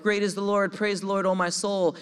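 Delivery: King David's exultant psalm, lightly voiced; joyful praise. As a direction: proclaim it like a psalm of joy. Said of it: "half of 'em are like".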